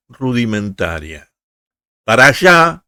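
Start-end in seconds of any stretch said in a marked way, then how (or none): 2.0-2.8 louder, higher mock shout; shouted cry. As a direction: call it out as a brief example cry. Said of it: "es un grito emitido por A". (grito de ejemplo)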